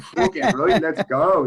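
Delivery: eager, hyped acceptance; pumped-up yes. Retold or imitated. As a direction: fire up like you just got the call. Accepting the fight on the phone.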